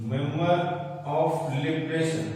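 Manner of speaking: drawn out, word by word; slow dictation. Shown as a demonstration. Teacher expanding MLA for students, slow dictation. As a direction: dictate it slowly with pauses between words.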